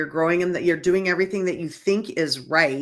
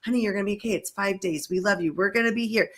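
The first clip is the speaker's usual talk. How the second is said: soothing parent; 2 semitones higher, faster than usual. Retold or imitated. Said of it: "parents that drop their kids off".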